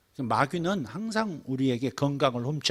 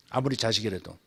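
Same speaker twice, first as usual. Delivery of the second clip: normal talking voice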